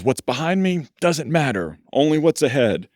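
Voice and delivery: put-on Italian driver tossing the mirror, light Italian accent. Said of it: "in a little Italian accent".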